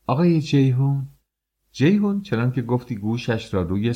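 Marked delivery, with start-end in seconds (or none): 0.1-1.1 high, thin call. A narrator's reading. Master calls Jeyhun at the door, in a thin high voice. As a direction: pitch it up narrow and call out. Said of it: "با صدای باریکی گفت".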